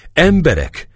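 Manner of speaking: high, insistent call; near shout. A narrator's reading. Wounded Éva demands the men's attention, almost shouting. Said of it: "Szólt Éva szinte kiáltva".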